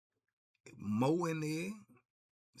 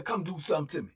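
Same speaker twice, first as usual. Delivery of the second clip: daring them; 5 dB louder, faster than usual. Retold or imitated. First dare.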